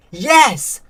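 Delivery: high, loud scream. A narrator's reading. Trapped boy answers his sister through the door, screaming. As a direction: scream it out, pitched well up. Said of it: "screamed Alec".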